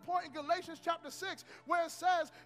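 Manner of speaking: forceful sermon delivery with stretched key words; emphatic preaching. Acted. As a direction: drive the lesson home to the congregation.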